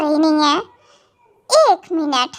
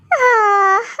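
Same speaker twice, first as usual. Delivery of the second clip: exasperated groan; 3 semitones higher than usual. Acted. Stuck with the baby.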